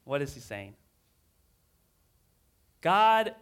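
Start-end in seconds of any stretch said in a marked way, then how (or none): 2.8-3.3 anguished cry. Acted. Jeremiah crying out to God.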